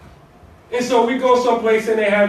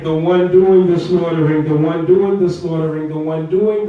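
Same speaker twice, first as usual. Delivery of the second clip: louder, pressing on "doing" in "the one doing the slaughtering"; preacher hammering the point, louder on "doing"; emphatic repeat; 4 semitones lower, 4 dB louder than usual. Shown as a demonstration. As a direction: drive the repeated phrase home, louder.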